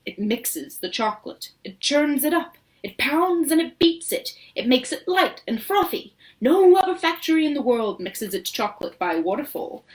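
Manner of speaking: eager showman, rising with pride; a proud host showing off every wonder; excited Wonka. Acted. Showman boasting about the chocolate waterfall.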